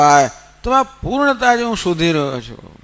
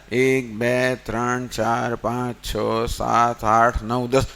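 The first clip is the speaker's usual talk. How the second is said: low, soft count, one by one; quiet counting; 7 semitones lower, 5 dB quieter, slower than usual. Acted. The leader counts his friends standing in line, low and soft. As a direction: count the men under your breath.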